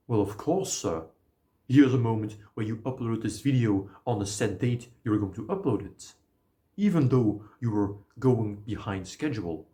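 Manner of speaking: polite British bank teller; a touch of posh British service voice; British accent. Acted. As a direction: answer in a courteous British accent. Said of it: "I have this in a British accent".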